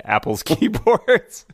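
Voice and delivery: slow, high Kiwi drawl; New Zealand accent. Retold or imitated. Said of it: "And he said".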